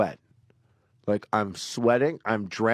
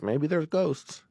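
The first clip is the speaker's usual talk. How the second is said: higher, slow, tentative suggestion; open-minded maybe; 5 semitones higher, much slower than usual. Acted. Storyteller admitting ghosts might exist, tentative and drawn out. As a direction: float it slowly as a possibility. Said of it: "I am someone like".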